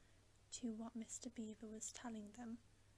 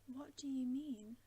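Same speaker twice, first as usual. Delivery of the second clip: indignant demand; 3 semitones higher, 7 dB louder than usual. A narrator's reading. Susan protests in alarm at Beaver.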